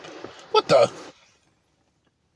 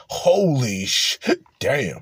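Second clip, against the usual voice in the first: imitating the white guy; much slower than usual. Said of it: "And the white guy".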